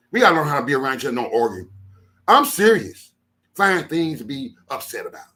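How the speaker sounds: fast build into a high shouted I'm serious; rising preacher shout. Real, not acted. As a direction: drive the scolding up to a shout. Preaching rant to his followers.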